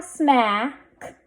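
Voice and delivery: smack with stretched vowel, k delayed; blended slowly. Shown as a demonstration. Teacher sounding out a word for readers, blended slowly. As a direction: hold the a in smack, then add k. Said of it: "Let's read this".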